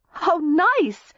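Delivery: high, strained politeness; uneasy politeness. A narrator's reading. Daisy wriggling in his tightening grasp, uneasily polite. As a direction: squeak out a polite response. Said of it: "Daisy said, wriggling in his tightening grasp".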